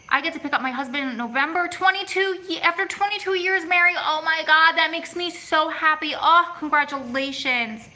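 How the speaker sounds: high-pitched, delighted squeal of happy news; excited congratulations. Real, not acted. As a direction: gush with joy for a friend.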